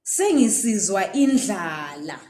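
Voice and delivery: Sengisizwa indlala with stress on Sengisizwa; example sentence. Shown as a demonstration. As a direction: model the sentence. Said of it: "you can hear someone saying".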